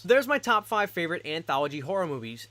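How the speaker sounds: "favorite" given clear emphasis; stress on favorite. Real, not acted. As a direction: lean on the word "favorite". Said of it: "emphasis on the word favorite".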